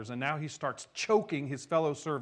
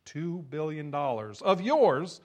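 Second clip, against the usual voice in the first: much higher and louder, furious rebuke; king thundering in anger at his servant; angry king; 7 semitones higher, 7 dB louder than usual. Acted. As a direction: roar it at the wicked servant. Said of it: "In anger".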